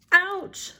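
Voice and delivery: mock yelp of pain; pained exclamation. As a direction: exclaim it like a storybook frog imagining the hurt. Frog reacts to sitting on iron.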